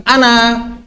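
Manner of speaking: "Anak" as "anaa", last a held long; long final vowel. Shown as a demonstration. Teacher showing Arabic pause form, long vowel. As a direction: hold the final a of "Anak" at the stop. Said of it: "berhenti jadi panjang".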